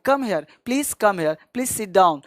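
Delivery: very slow, gently spaced words; slow polite demo. Shown as a demonstration. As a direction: show learners a simple polite way. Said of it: "आपको जो आता है". (धीमे, विनम्र अंदाज़ में)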